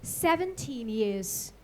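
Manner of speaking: measured poem recital with pauses between short phrases; poetry reading. Acted. Poet reads a poem on Zhu Zimo to an audience, measured recital. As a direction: recite it line by line, letting each phrase hang.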